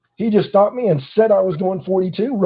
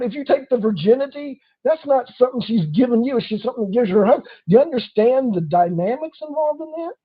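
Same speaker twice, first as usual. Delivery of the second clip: imitating friends; 6 semitones higher than usual. Voicing friends then his rebuttal.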